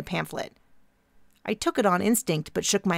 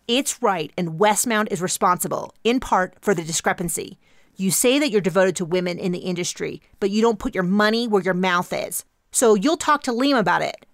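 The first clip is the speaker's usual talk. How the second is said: intense activist voice; 4 dB louder than usual. Acted. Intense young activist character.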